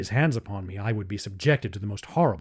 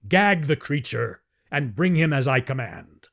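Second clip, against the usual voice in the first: angry command; 3 semitones higher, 3 dB louder than usual. Acted. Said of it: "roared Talhajas".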